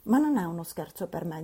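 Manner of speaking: frowning. Acted. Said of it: "disse la signorina con cipiglio".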